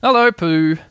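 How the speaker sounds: mildly joyful hail; joyful shout. A narrator's reading. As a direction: call it out happily. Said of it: "he shouted joyfully".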